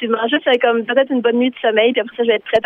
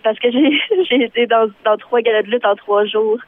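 hoarse, worn-out voice; raspy from days of yelling. Real, not acted. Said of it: "t'as une petite voix enrhumée".

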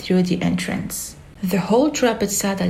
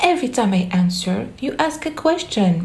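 frustrated; 3 semitones higher, faster than usual. Acted. Alice frustrated with Hatter.

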